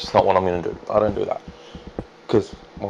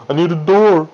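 louder, more urgent second time; urgent repeat; 6 semitones higher, 4 dB louder than usual. Real, not acted. To himself as night nears, louder urgent repeat. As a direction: press it, now it's urgent.

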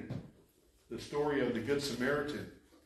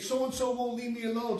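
high-pitched mock yell, little added volume; imitated screaming; 10 semitones higher, 4 dB louder than usual. Preacher retelling a homeless man's outburst, mild mock yell. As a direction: mildly act out a tormented man's cry. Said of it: "He's cussing and screaming".

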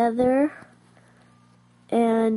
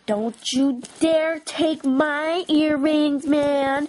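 slow, higher pretend-angry warning; mock warning; 3 semitones higher, slower than usual. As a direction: warn them slowly, playing cross. Acted quarrel over earrings.

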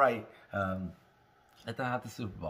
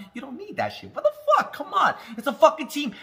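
laughing; 11 semitones higher than usual. Real, not acted. Laughing at obsessive sports fans.

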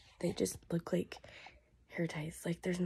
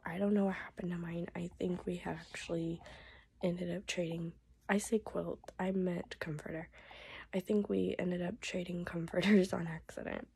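voice giving out. Real, not acted. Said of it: "my voice will last".

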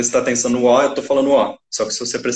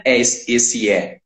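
ordinary talk

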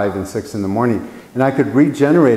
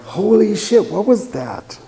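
high, shocked outburst; a jolt of alarm as the car speeds off; startled panic; 10 semitones higher, slower than usual. Retold or imitated. Witness seeing the car drive off, startled high yelp.

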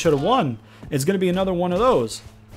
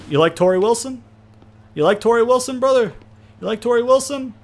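mock wrestler taunt; 8 semitones higher than usual.

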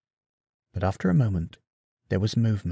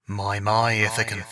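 echoing ghost voice; 4 dB quieter than usual. Acted. Prophet's shade teases Odysseus, soft echoing voice. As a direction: tease him from beyond. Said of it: "in the same echoing voice his mother had".

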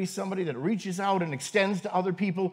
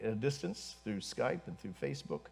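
low, hushed congregational prayer; 5 semitones lower, 4 dB quieter than usual. Real, not acted. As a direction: pray softly and humbly to God.

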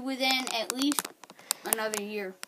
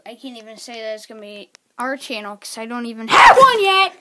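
rising complaint; 13 dB louder, faster than usual. Real, not acted. Complaint building to a shout.

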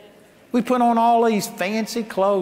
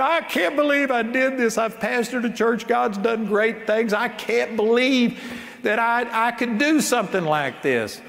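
raised pitch, a touch of tearful disbelief; retold crying; 4 semitones higher than usual. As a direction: mildly imitate a broken man in tears. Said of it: "he just started crying".

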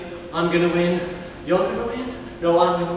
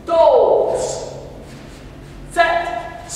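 counting in Korean; 6 semitones higher, much slower than usual. Shown as a demonstration. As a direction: bark each Korean number like a martial arts call.

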